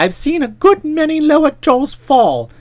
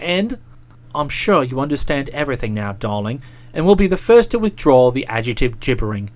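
put-on lightly lowered, smooth talking young man; placating fiancé; 10 semitones lower than usual. A narrator's reading. Boko talking his fiancée down while explaining himself, smooth and placating. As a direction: soothe her while pressing his point. Boko's long defence, low voice.

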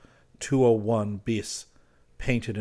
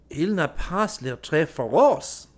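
smiling; 5 semitones higher, slower than usual. A narrator's reading.

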